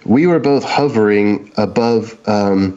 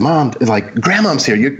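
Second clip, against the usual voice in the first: put-on higher, eager little-kid call; excited child; 3 semitones higher than usual. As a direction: call out to mom all excited about grandma. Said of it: "I was all excited".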